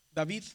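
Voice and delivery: "David" as in modern Greek, v not w; Greek pronunciation. Shown as a demonstration. Teacher models Greek diphthong: "David" with v. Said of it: "se pronuncia".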